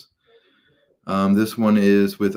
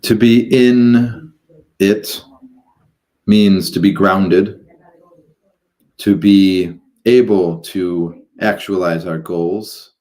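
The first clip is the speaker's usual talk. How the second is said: measured, halting guidance into meditation; guided meditation; 6 dB louder than usual. Acted. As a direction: guide listeners gradually, drawing out phrases and pausing between them.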